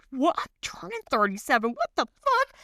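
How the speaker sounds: shocked disbelief. Retold or imitated. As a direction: panic at realizing your own age. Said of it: "And I'm like".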